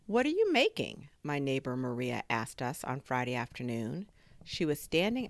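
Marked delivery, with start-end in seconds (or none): 0.1-1.1 high-pitched, louder question; curious neighbour. A narrator's reading. Neighbour peeking into the tool shed, high and curious. Neighbour Maria asks about invention.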